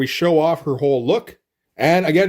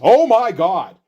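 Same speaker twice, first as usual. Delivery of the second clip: higher mock-shocked cry; startled exclamation; 5 semitones higher, 4 dB louder, slower than usual. She sees Madeline Pryor, startled exclamation. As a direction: gasp it out high, playing sudden shock. Voices a character's startled sighting.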